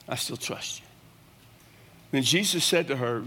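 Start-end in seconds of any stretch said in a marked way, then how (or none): 0.1-0.9 breathy near-whisper, much softer; whispered prayer. Acted. Preacher voicing a believer's prayer to Jesus, whispered. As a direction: whisper it as a private confession of trust.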